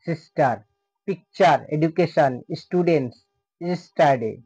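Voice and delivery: "সিস্টার" and "পিকচার" in measured separate syllables, each word falling. Shown as a demonstration. Teacher giving syllable examples, each word sounded out in parts. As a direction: list each word apart, dividing "ইয়েস্টারডে" into its syllables. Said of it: "ততটুকু অংশকেই syllable বলে".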